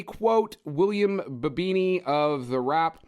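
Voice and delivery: slow, measured review reading; podcast sign-off quote, each phrase set apart; formal quote read. Real, not acted. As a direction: read out the critic's praise with deliberate pacing. Reads a review quote to close.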